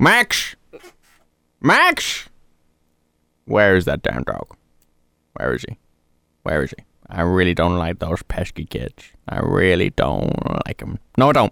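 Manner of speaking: low, soft, hushed voice with swooping pitch. Showing off an impression, calling for the dog Max: Grinch impression. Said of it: "I can do quite a good Grinch impression".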